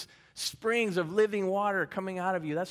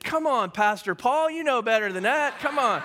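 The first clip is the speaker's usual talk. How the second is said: scolding; 5 semitones higher, 6 dB louder than usual. Retold or imitated. Pastor rebuking a no-show churchgoer, louder mock scold. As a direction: call him out firmly but kindly. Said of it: "I said".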